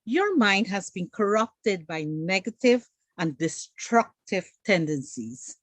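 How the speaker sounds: a hint of proper English, measured and slow. Shown as a demonstration. Echoing the host in proper English, slow and prim. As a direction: lay it out slowly and primly, like a proper speaker. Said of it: "Marla would say".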